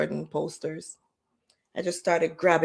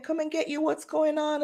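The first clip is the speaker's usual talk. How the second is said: surprised sister; 9 semitones higher, 4 dB quieter than usual. Retold or imitated.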